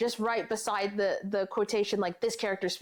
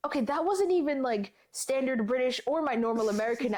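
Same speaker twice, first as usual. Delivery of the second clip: higher-pitched mock exasperation at yourself; self-critical; 4 semitones higher than usual. Narrator picking apart their own recorded accent, mock self-critical. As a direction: question your own take in a high, incredulous voice. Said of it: "being super critical".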